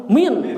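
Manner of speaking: "min" said with an i vowel; wrong vowel demo. Shown as a demonstration. Teacher showing students a misreading, wrong vowel. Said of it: "Jangan bacanya".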